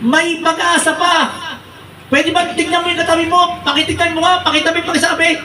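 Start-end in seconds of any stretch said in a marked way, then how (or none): 0.1-1.5 be hopeful, slowly and sincerely; preacher urging the congregation slowly to hope; earnest and slow. Real, not acted. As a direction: press the hope home gently. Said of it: "ang unang gusto ipaalala".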